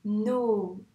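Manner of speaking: "No" slowly drawn out; blended syllable. Shown as a demonstration. Teacher reads back the finished syllable, sounded out. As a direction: hold the n and o of "No". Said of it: "Moi, je veux no".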